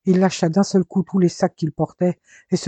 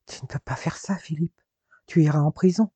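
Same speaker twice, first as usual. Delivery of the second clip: frightened plea. Acted. Marina pleads at gunpoint.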